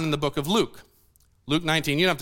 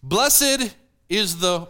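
slow leading pause; much slower than usual. Shown as a demonstration. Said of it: "Now notice what it says".

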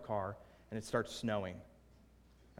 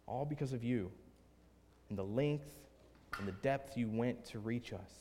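earnest spoken prayer in measured phrases; congregational prayer. Real, not acted. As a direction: address God with deliberate pauses. Leads the closing prayer.

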